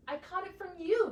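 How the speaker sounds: barked. Acted. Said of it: "barked the rooster".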